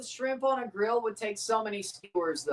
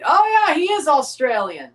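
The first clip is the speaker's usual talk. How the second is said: much higher and louder oh yeah; excited realisation; 7 semitones higher, 7 dB louder than usual. Real, not acted. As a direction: burst out as it clicks. Sudden realisation.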